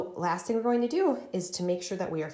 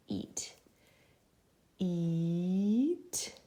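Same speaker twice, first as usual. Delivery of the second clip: whispered repeat. Shown as a demonstration. Teacher whispering word while writing it. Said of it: "let's write eat".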